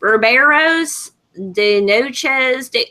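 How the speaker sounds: mocking take on a thick-accented Spanish student. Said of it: "her accent was so thick".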